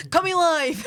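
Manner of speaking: laughing through a mock broadcast intro; hamming up coming live while laughing. Co-host laughing while playing at a live broadcast.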